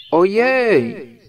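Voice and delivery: high, loud, sudden yelp of alarm; a stuck bear's shocked outcry; startled cry. A narrator's reading. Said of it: "zawołał Puchatek". (przestraszony, głośny, wysoki okrzyk)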